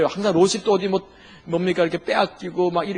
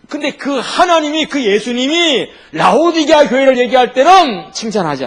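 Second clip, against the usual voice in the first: preaching loud; 6 semitones higher, 8 dB louder than usual. Real, not acted. Preacher to congregation on Laodicea, loud and high. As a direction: raise the voice to drive the rebuke home.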